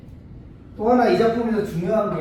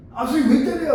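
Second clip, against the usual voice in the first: high-pitched acted student complaint; mock indignant yelp to the teacher; protesting student; 9 semitones higher, 4 dB louder, faster than usual. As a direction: protest as a student who just got hit. Acted student protesting being hit.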